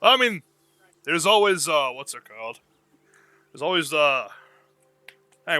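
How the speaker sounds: lightly voiced barkeep trying to remember; a hint of a forgetful tavern keeper; bartender character. Bartender answering the new customer, lightly voiced.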